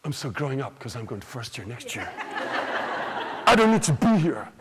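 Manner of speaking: mock a too-cool sixth-classer; twelve-year-old dismissing a school show, huffy; snooty twelve-year-old. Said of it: "when you see the twelve-year-olds".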